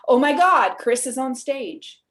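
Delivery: acted thrill, loud on the first words; lightly acted starstruck outburst; excited fan exclamation. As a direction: exclaim it like a fan spotting a favorite. Acting a listener recognizing Chris.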